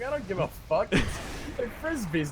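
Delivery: slow, drawn-out imitation of a kid; mock rude kid. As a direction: stretch it out like a careless kid.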